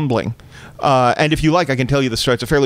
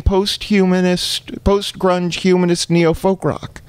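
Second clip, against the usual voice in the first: exasperated disbelief; 6 semitones higher than usual. Retold or imitated. Exasperated son at mother.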